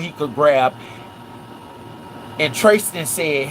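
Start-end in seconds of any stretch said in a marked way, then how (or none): none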